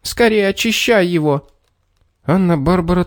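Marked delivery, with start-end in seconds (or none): 0.0-1.5 high, urgent alarm. A narrator's reading. Little man urging the girl to clean, high alarmed voice. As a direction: hurry her in a fright. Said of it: "вдруг вскрикнул он".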